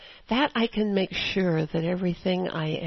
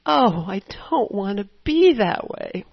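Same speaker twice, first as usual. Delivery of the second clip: swooping plea, leaning on "be"; mildly acted dismay; 2 semitones higher, 4 dB louder than usual. Shown as a demonstration. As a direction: model a heartfelt, regretful little prayer. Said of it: "Just say".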